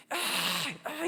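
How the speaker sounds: imitated child's forced bawling; fake crying wail. Youngest crying on purpose in his room, imitated as a put-on wail. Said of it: "소리를 내서 일부러 우는 거예요".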